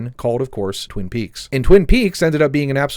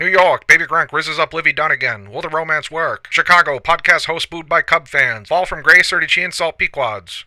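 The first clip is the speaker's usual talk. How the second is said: rapid-fire 1930s radio newsreader; punchy old-timey gossip bulletin; old-time radio gossip anchor; 3 semitones higher than usual. Pretend. Mock Winchell-style gossip bulletin.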